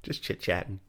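whispered aside; whispering. Real, not acted. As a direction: say it under your breath. Playful aside.

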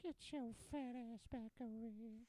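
put-on high old-man bark. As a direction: call out like a cranky grandpa. Acting as grandpa.

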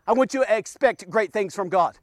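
soft first take. Shown as a demonstration. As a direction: say it quietly, as if holding back. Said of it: "What, what'd you say?".

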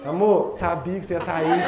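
laughing lovey phone voice; giggly late night call. Retold or imitated. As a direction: giggle it to your sweetheart.

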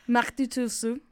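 German phrase in an Asian accent. Real, not acted. Student reciting German for her friend, unintended Asian accent. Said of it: "I said it with an Asian accent".

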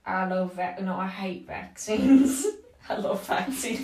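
American caricature breaking into laughter; Trump-supporter American. Acted. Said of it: "Like the Trump support Americans".

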